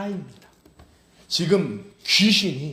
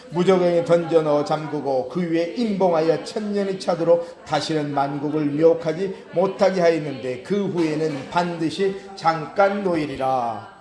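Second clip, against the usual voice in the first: formal, forceful Bible reading; scripture reading; 2 semitones higher, 3 dB louder than usual. Acted. Preacher to congregation, a vision of the angel, firm scripture reading. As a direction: read the verse out firmly to a congregation.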